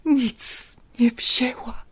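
barely audible whisper. A narrator's reading. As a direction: breathe it out, voice gone. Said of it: "wyszeptał ledwo słyszalnie".

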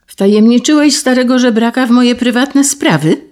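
an angry, offended question; indignant outburst. Acted. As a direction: bristle with outrage at a betrayed secret. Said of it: "Zaperzył się Hugon, pąsowy z gniewu i oburzenia".

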